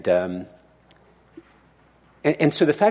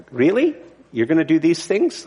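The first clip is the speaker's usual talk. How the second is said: higher-pitched, doubting question, rising at the end; incredulous questioning; 5 semitones higher than usual. Acted. Abram questioning God's promises, mildly incredulous. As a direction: question it in mild disbelief.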